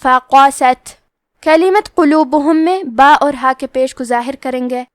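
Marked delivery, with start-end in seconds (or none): 0.0-1.0 فقست with a breathy ت at the end; فقست with each fatha even and a breathed ت; slowly recited فقست, breathy final ت; hams on ta. Shown as a demonstration. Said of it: "ہمیں تا کو ہمزے سے پڑھنا ہے".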